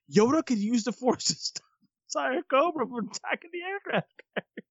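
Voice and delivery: high, giggly voice breaking up with real laughter; laughing through words. Real, not acted. Man recalling playing Yoda with his friends, laughing through it. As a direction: tell it through helpless high-pitched laughter.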